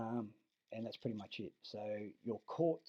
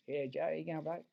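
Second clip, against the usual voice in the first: higher, louder Lebanese Australian street greeting; Lebanese Australian accent; 6 semitones higher, 5 dB louder than usual. Retold or imitated. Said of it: "a couple of Lebs, and they fucking sound".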